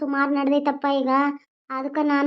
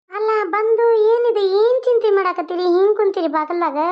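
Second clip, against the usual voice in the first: higher, concerned wife asking her husband; worried wife; 6 semitones higher, 4 dB louder than usual. Acted. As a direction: press him gently on what troubles him. (ಚಿಂತೆಯಲ್ಲಿರುವ ಹೆಂಡತಿ, ಎತ್ತರದ ದನಿ)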